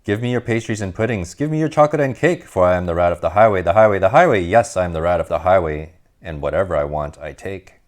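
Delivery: lightly voiced swaggering rat, chanting his demands; a hint of a greedy bandit bragging; boastful highway rat.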